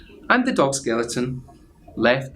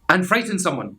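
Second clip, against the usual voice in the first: higher eager little skeleton voice; 6 semitones higher than usual. Acted. Little skeleton suggesting mischief, higher and eager. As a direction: squeak it out with glee.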